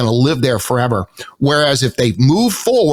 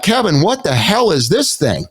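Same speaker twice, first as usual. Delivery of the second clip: higher-pitched incredulous challenge; acted disbelief; 5 semitones higher than usual. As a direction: demand an explanation, mock-appalled. Acts out confronting Kevin about lawsuits.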